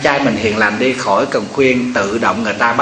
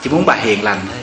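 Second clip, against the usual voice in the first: husband teasing; 2 semitones lower, 5 dB quieter than usual. Retold or imitated. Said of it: "Ông nói".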